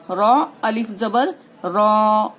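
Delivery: रॉ spelled out slowly, ending on a stopped रॉ; paused Arabic ending. Shown as a demonstration. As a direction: spell out रॉ, cutting the breath at the end. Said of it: "इस तरीके से रुकना है".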